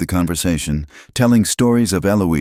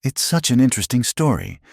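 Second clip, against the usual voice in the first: gloating; 9 semitones higher, faster than usual. A narrator's reading. Miriam gloating.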